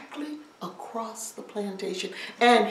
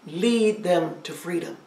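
put-on low old man; 5 semitones lower than usual. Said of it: "The old man said".

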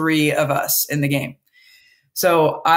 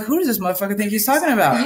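higher, fast, incredulous mock outrage; retold anger, pitched up and quick; indignant inner rant; 4 semitones higher, faster than usual. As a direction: replay how furious she felt at the insult. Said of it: "and I was so mad".

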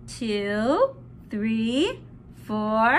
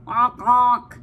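penguin honk; 5 semitones lower, 5 dB louder than usual. Pretend. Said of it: "And the penguin says".

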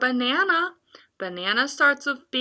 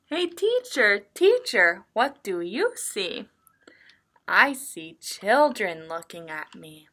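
picture-book reading. Acted. Teacher reads a picture book to young children, sing-song reading. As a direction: read it in a lilting story rhythm.

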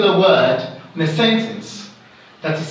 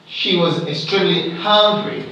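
"hungry" as the strongest word; stress on hungry. Shown as a demonstration. Teacher repeating standard stress, emphasis on "hungry". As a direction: lean on the final word "hungry". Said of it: "standard stress here should be hungry".

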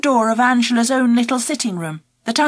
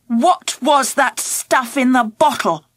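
stern; slower than usual. Acted. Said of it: "in the sternest voice I could muster".

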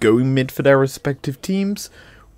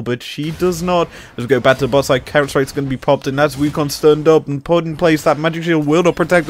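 fast live game commentary; play-by-play; 2 semitones higher than usual. Acted. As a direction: call the action quickly.

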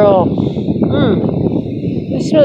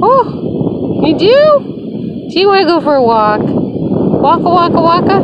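excited dog talk; 6 semitones higher than usual. Real, not acted.

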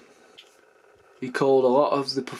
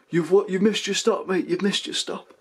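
train guard; 7 semitones higher than usual. Retold or imitated. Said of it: "train instructor guys saying to me".

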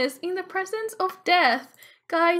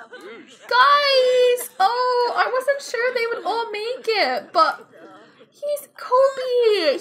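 mock crying; 4 semitones higher, 4 dB louder, much slower than usual. Mourning dead game character.

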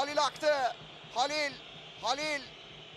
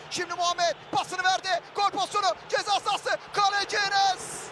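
rising commentator excitement; 3 semitones higher than usual. Real, not acted. Chance builds in the box.

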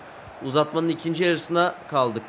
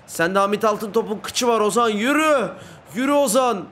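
urging shout; 4 semitones higher than usual. Real, not acted. Urging player in football game.

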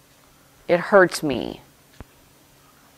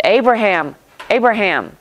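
angel calling out; 5 semitones higher than usual. Acted. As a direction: call down from heaven urgently. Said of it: "called to him out of heaven".

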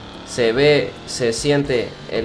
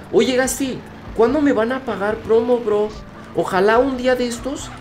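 mock whiny plea; 10 semitones higher than usual. Begging Gasti for paid promo.

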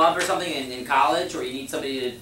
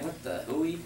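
mock baffled; 2 semitones higher, 8 dB quieter than usual. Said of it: "You'd be like".

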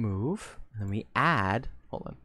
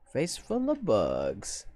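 spelling it out slowly; slow, careful dictation; slow and deliberate; 5 semitones lower, 4 dB quieter, much slower than usual. Shown as a demonstration. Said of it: "slowly reads raid phrase".

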